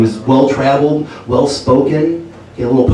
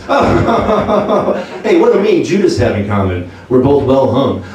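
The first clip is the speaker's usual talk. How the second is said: stand-up comic Jesus; slower than usual. Retold or imitated. Jesus on the cross opening his comedy set. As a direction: work the room like a cheesy headliner. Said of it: "ultimate stand-up comedian".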